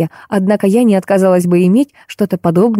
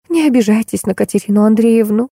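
rustling voice; 4 semitones higher than usual. Acted. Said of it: "тоном, похожим на шуршание опавшей листвы".

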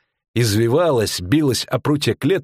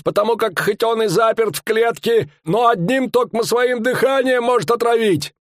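a pitched-up showman bellowing his tale; fairground barker; 13 semitones higher than usual. Acted. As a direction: sell the monster to the crowd. Showman barker voiced in story.

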